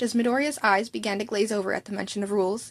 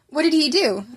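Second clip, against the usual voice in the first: higher, louder curious question; intrigued; 5 semitones higher, 6 dB louder than usual. A narrator's reading. Friend intrigued by the story, louder. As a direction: lean in with curiosity.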